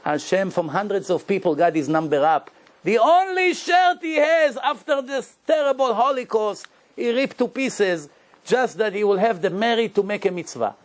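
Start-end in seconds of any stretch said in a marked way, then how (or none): 2.8-8.1 raised, ringing preacher's cry; emphatic outcry. Real, not acted. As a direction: call it out to move the listeners. Preacher stressing the sacrifice.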